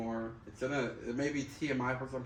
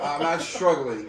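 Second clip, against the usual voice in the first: laughing; 4 semitones higher, 12 dB louder, slower than usual. Real, not acted. Joking about wiping, both laughing.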